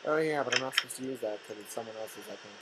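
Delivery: fast mocking voice; mocking chat. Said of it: "imitating chat".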